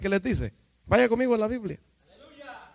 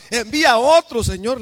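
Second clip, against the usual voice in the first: súplica quejosa; 4 semitones higher, 6 dB louder than usual. Acted. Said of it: "le envía a otro".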